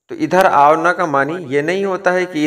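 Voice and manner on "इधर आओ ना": affectionate request. Shown as a demonstration. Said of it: "बड़े प्यार से ये बोला जा रहा है".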